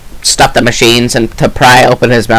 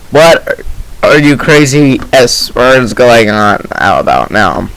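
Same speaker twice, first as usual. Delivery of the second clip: put-on slow, older, heavy man voice; older fatter man; slower than usual. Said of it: "sounded like an older, fatter man".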